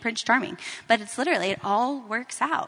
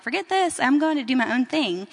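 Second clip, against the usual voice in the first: raised, louder dismissive retort; lightly acted brush-off, pushed louder; mock defiance; 3 semitones higher, 6 dB louder than usual. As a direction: imitate someone defiantly going their own way. Voicing Naomi's earlier defiant turning away.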